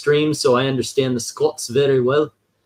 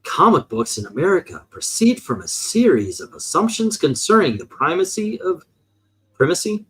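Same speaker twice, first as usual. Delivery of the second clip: mock AMC narrator voice. Host reading the comic text on request in a mock AMC narrator voice. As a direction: read it like a solemn TV narrator. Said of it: "do the A M C voice".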